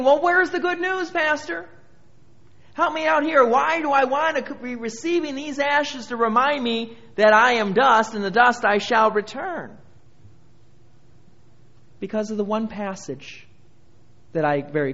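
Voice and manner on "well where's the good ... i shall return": higher-pitched, protesting appeal to the pastor; questioning churchgoer. Acted. Churchgoer asking the pastor for good news, high pleading protest. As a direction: plead for an explanation in a raised voice. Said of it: "you might be thinking".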